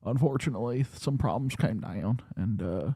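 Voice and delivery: a light Bill Clinton voice, soft and easy; lightly voiced Clinton reminiscing; Bill Clinton impression. Podcast host doing a soft Bill Clinton for friends. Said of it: "It is a very good Clinton impersonation".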